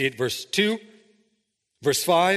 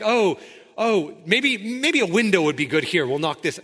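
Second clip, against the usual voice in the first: careless improviser; 3 semitones higher, 3 dB louder than usual. Pretend. Mock builders improvising the tabernacle.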